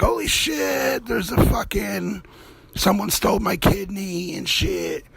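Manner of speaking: high, startled yelp of panic; mock panicked shock. Victim waking in an ice bath, mock horror. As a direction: wake up in a tub, horrified.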